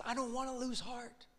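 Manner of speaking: a hint of a desperate son; retold cry. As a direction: son pleading with his father, lightly voiced. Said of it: "he screams at his dad".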